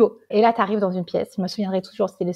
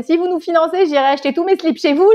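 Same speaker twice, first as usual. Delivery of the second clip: quoting her partner; 7 semitones higher, 4 dB louder than usual. Retold or imitated. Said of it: "Pierre Arnaud qui dit".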